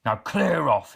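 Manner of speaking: loud, angry order to leave; troll snarling at the visitor to go. Acted. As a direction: snarl it to chase him off. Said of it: "he snarled".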